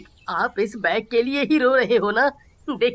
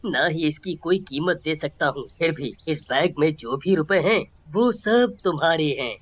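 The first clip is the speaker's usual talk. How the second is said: a lower, lightly voiced older man; grateful owner; 5 semitones lower than usual. Grateful shop owner speaks. (आभारी मालिक की हल्की भारी आवाज़)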